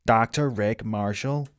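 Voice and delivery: slow, lightly imitated movie quote; a hint of impression, unhurried; film character's self-introduction. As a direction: draw the name out slowly, quoting a film. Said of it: "him just being like".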